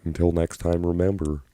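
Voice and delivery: lightly put-on British-Australian host voice; a hint of an Aussie-British TV presenter; British-Australian accent. Shown as a demonstration. Streamer rehearsing an outro in a British-Australian accent. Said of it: "British and Australian all at once".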